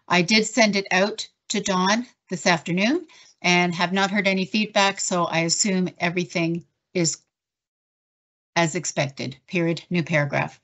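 even, measured dictation voice; dictating. Shown as a demonstration. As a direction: dictate it clearly to the software. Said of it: "do a quick dictation".

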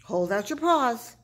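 high, loud, urgent commands; rally everyone for the catch; yelled orders. A narrator's reading. Pip readies prairie dogs to catch Big Bark, yelling. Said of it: "yelled Pip".

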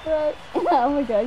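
laughing. Real, not acted. Laughing at a small player.

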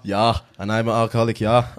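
put-on jokey German accent with "ja"; lightly put-on German. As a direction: confess in a mock German accent.

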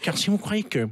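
low, menacing dictator voice; low and pompous, like a tyrant; Laurent Wauquiez impression. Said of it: "Tiens, Laurent Wauquiez".

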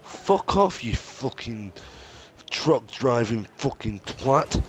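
swearing tirade. Real, not acted. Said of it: "Nico's raging is hilarious".

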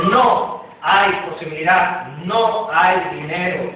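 slow, mildly sinister devil's whisper-in-the-ear; voicing the devil. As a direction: say it slowly like a tempter planting doubt. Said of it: "el diablo te dice". (el diablo tentando, lento y con un toque siniestro)

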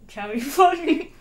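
chipmunk cheeks, words smothered; cheeks stuffed full. Real, not acted. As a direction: mouth packed with marshmallows. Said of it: "I feel like a chipmunk".

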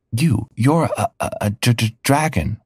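shocked stammer, halting on each word; stammering exclamation. Acted. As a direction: stumble over it in disbelief. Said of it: "I exclaimed".

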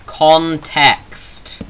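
"Context" said slowly and firmly; finally landing "Context" deliberately; careful correction. Real, not acted. "Context" fixed after stumbling before viewers. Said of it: "I can't English today".

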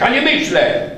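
loud high refusal; defiant boy. A narrator's reading. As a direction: throw it back stubbornly. Jacek refusing the octopus.

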